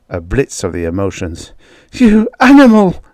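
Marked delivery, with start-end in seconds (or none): 1.9-3.0 high, loud outraged cry; shrieked accusation, much higher. A narrator's reading. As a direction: hurl it at him in shock. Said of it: "she cried".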